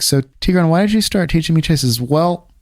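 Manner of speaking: imitating a Russian chess friend's accent; mild Russian accent, playful retelling. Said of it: "my Russian accent story".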